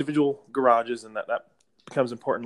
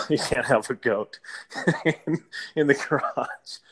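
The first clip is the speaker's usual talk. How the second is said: slow, broken by real chuckles; laughing while speaking; 2 semitones higher, slower than usual. Real, not acted. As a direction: try to finish through a laugh. Amused retelling of the absurd objection.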